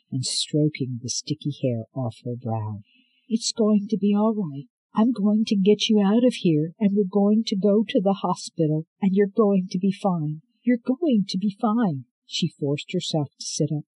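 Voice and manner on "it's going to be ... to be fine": higher, loud urgent reassurance; anxious young woman. Acted. Scarlet finding her grandmother in the cell, anxious and urgent. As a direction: rush to calm her with your voice.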